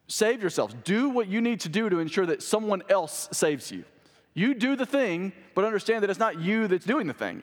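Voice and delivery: earnest pulpit paraphrase; urgent preaching. Real, not acted. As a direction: press the listeners to act, voice lifted. Preaches his paraphrase of Peter.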